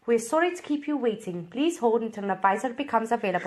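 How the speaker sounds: put-on botched Scottish accent, recorded-message style; shaky-authenticity Scottish announcement; Scottish hold message. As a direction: attempt a Scottish phone waiting line. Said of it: "a waiting line on Scottish".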